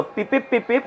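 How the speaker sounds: quick soft "peep" signals; hushed run of spoken beeps; imitated warning beeps. Shown as a demonstration. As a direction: mimic short alarm pips, softly. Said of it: "જેવા ચેતવણીના સિગ્નલો".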